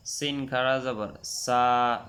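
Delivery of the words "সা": সা with a sharp hissing s; whistled sa. Shown as a demonstration. Teacher shows the whistling সা for sin. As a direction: let the s of সা whistle. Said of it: "শিস দিয়ে পড়তে হবে".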